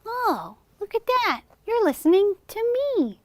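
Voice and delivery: high squeaky little puppet. Acted. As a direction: chirp it as the shy puppet. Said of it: "if Coretta starts to talk".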